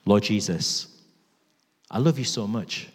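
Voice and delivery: low, measured prayer with long pauses; heartfelt prayer. Real, not acted. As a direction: personal plea to Jesus in prayer. Leads the congregation in prayer.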